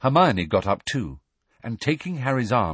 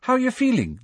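put-on much higher girl's voice; Ginny voice; faster than usual. A narrator's reading. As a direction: voice Ginny brightly. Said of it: "Ginny asked Ron".

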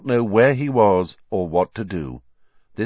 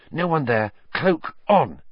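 Hermione whispering; 6 semitones higher than usual. Acted. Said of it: "she whispered".

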